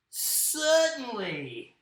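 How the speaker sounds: slow, drawn-out Aussie kangaroo; first-try Australian kangaroo voice. Acted. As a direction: stretch it out in an Australian accent. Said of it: "I'm gonna do my kangaroo like this".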